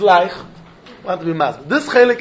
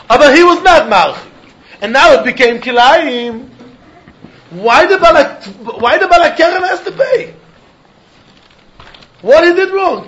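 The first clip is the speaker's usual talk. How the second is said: indignant protest; 4 semitones higher than usual. Acted. Rabbi voices the vineyard owner protesting.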